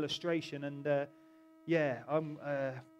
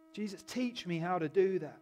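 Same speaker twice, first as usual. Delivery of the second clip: earnest plea; 2 semitones higher than usual. Acted. Repeats disciple's plea, voiced fully.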